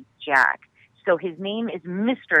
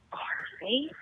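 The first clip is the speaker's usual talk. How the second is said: dramatic dad; 8 semitones higher, 12 dB quieter than usual. Retold or imitated. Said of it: "took the longest dramatic pause".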